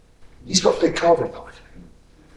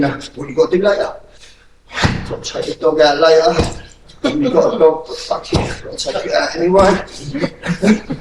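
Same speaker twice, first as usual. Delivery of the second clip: distracted inner voice.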